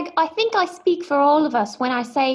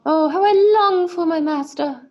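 mock yearning; 4 semitones higher, 4 dB louder than usual. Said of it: "translating Sweet Tim's thoughts".

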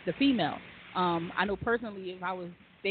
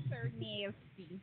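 sultry drawn-out; 11 dB quieter, much slower than usual. Shown as a demonstration. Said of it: "I just wanna say it real nasty".

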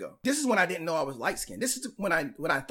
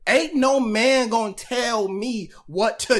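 sassy woman voice; 4 semitones higher, 8 dB louder, slower than usual. Retold or imitated. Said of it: "they feel like".

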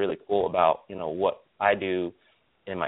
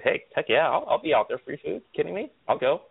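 mock excited; 7 semitones higher than usual. Eager reply to free lunch.

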